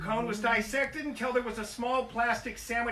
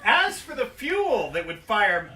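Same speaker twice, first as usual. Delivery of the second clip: slower, louder restart through a laugh; 6 dB louder, slower than usual. Real, not acted. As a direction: start over again, laughing. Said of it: "All right, anyway".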